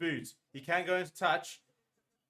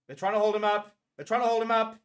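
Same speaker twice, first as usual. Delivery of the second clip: higher and louder urgent yell; excited shout; 6 semitones higher, 7 dB louder than usual. Real, not acted. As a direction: shout at the maul. Tense maul, shouting.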